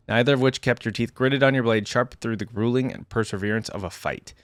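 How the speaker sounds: even, measured read-aloud narration; story narration. A narrator's reading. YouTuber reading a champion's biography to viewers, story narration.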